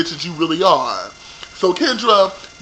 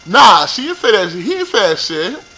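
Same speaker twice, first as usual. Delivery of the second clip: usual speaking voice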